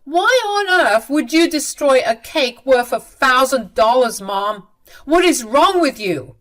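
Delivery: angry son scolding. Acted. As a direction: demand answers from Mom, outraged.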